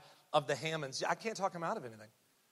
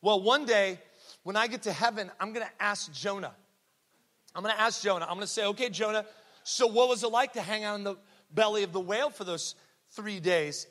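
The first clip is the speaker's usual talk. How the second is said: put-on higher, louder child voice; determined little girl; 3 semitones higher, 5 dB louder than usual. Little girl vowing to ask Jonah in heaven, determined and high. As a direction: imitate a schoolgirl confidently stating her plan. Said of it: "And she goes".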